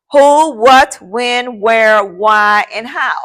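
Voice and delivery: each question word set apart and stressed; listing the W's. Shown as a demonstration. Teacher listing the question words for class, each stressed. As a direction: count them off one by one. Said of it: "five W's and the H".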